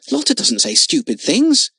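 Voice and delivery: loud, high defence of a friend; angry cry. Acted. Jimmy defends Lotta to Frick, loud angry cry. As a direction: snap back in her defence. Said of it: "cried Jimmy angrily".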